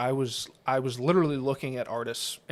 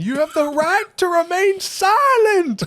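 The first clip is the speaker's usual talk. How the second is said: full-throated, high-pitched movie yell; loud, high, hammed-up shout; Samuel Jackson screaming; 9 dB louder than usual. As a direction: scream it like an action-film cop. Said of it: "Samuel Jackson screaming in the background".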